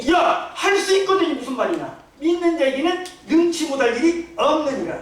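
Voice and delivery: a touch of a stern, rebuking Jesus; Jesus angry. Retold or imitated. Jesus rebuking the father's doubting words, stern. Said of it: "예수님이 화가 났어요".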